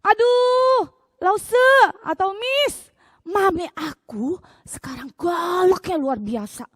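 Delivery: put-on high, loud kid's whine about mom; child complaining. Child complaining to teacher about mom, high whine. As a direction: play a fed-up little kid tattling. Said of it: "belum lagi anak-anak".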